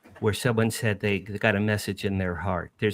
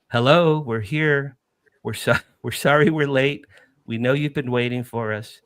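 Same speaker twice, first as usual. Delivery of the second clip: message from the light. Retold or imitated. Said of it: "This is from the light".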